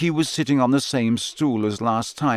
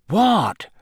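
high sharp question; surprised what; 11 semitones higher, 4 dB louder than usual. A narrator's reading. Harry blurts out a surprised question. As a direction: blurt it out, caught off guard. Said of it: "said Harry".

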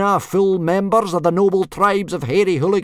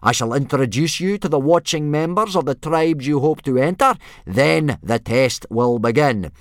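loud, raised parade-ground bellow; yelled orders; 8 semitones higher, 9 dB louder than usual. A narrator's reading. Instructor laying out the test to boys, yelling. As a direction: bark the rules at nervous recruits. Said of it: "yelled Gobber".

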